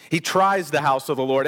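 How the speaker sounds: "tries" leaned on as the key word; stress on tries. Real, not acted. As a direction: repeat the line, putting the weight on "tries". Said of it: "I emphasize the word".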